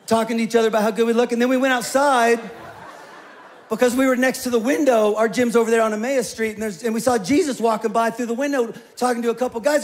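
a light gym bro rattling off his story; pumped-up gym guy. Acted. Witness James telling the court about the gym, fast and hyped.

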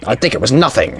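lightly imitated game villain; hint of a villain impression; Skullface. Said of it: "Sound like Skullface from Metal Gear Solid five".

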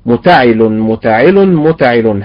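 متعل said three ways, each with stress on a different vowel; three stress patterns demonstrated. Shown as a demonstration. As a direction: shift the stress across متعل from one take to the next. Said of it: "سأنطق الثلاث صيغ".

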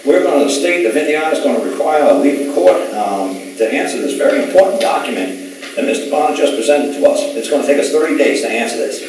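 lightly voiced prosecutor stalling the judge; older prosecutor. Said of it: "older prosecutor stood up in court and says".

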